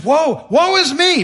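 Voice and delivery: high, loud, slow cry of woe; overwhelmed. Acted. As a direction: wail it as if overwhelmed. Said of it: "Isaiah is overwhelmed".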